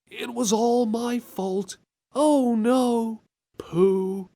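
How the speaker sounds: flat game-actor reading, stretched out; imitating game voice. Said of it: "same guy".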